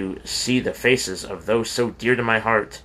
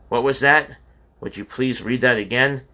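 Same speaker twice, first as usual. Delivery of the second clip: mother on the phone, caught off guard; stunned; 3 semitones higher than usual. Acted. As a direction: ask as if she misheard.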